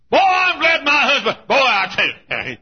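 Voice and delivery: high, loud shouted wife's crow; hammed-up shrill wife in the pew; mock gloating wife.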